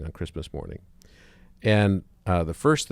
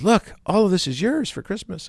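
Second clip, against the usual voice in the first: much higher, hammed-up cheerful psychiatrist; psychiatrist in the joke; 12 semitones higher, 3 dB louder than usual. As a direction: show him the presents in a big high put-on voice.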